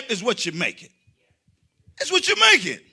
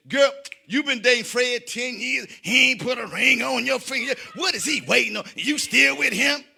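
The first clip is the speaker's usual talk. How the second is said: put-on nagging girlfriend; 3 semitones higher than usual. Girlfriend pressuring a woman about marriage, lightly mimicked. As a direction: draw out the mock advice like a meddling friend. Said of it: "This is your girlfriend tell you".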